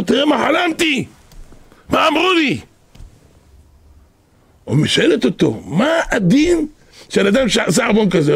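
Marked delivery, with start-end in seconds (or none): 0.0-2.6 high, excited voice of an upset mother; agitated mother. Acted. Mother tells the rabbi her dream. 5.7-8.3 high, excited voice of an upset mother; agitated mother. Acted. Mother asks the rabbi urgently.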